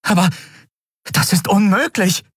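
high-pitched disbelieving exclamation; exclaiming. A narrator's reading. Woman hearing an impossible claim, exclaiming. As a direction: cry out in disbelief, pitch jumping up. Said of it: "rief sie aus".

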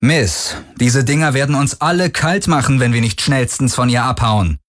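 lifted pitch, urging escape; urgent survivors' leader. Acted. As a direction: warn her insistently. Parker warns of danger.

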